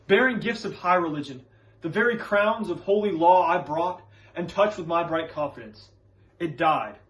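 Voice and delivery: understated, earnest confession and warning; lightly acted solemn counsel; Reverend Hale. Reverend warns Elizabeth from his own failed faith, earnest. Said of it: "when he is talking separately to Elizabeth later".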